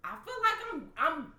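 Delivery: pleading to God, voice rising high and loud; emotional plea to God. Real, not acted. Telling her co-host how she begs God, emotional high outburst. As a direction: cry out to God, overwhelmed. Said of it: "man, I am getting emotional".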